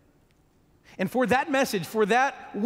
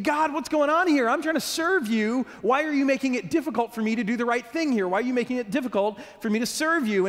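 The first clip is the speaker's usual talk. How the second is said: frustrated prayer; 4 semitones higher than usual. Acted.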